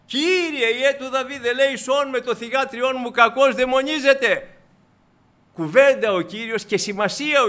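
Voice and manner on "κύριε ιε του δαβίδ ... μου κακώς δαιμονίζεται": high, loud desperate cry; a mother shouting for mercy, high and loud. Retold or imitated. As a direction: call after him, begging. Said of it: "Αυτή φωνάζει".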